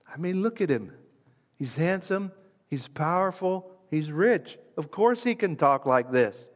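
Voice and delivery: lightly acted dismissive objector; imagined skeptic. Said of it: "Someone's gonna say".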